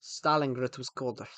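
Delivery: mock Russian accent, measured delivery. Shown as a demonstration. Streamer showing off an accent, Russian accent. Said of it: "do a Russian accent".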